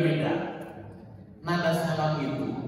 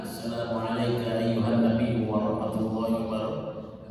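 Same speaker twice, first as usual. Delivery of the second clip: prayerful greeting; 6 semitones lower than usual. Shown as a demonstration. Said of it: "salam dulu kepada Nabi".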